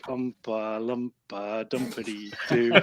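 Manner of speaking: low-voiced chant, softly to himself; under his breath. Character stalking up to the nearest foe, under his breath. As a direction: keep the little rhyme soft and private. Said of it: "he's kind of under his breath".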